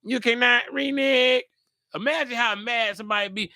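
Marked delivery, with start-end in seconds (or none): 0.0-1.4 firm, insistent robot refusal; stern computer voice. Retold or imitated. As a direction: computer laying down the rule. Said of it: "And the computer said".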